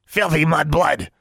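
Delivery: high, slow creature jeer. A narrator's reading. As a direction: spit the insult in a high beastly voice. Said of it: "Honey's voice was getting louder".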